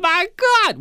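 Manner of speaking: high-pitched startled exclamation; hammed-up cry of alarm; mock freaked out. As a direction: act out sudden shock, voice leaping up. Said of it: "He's freaked out".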